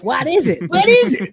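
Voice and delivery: the wrong, hammed-up frantic take; panicky version. Shown as a demonstration.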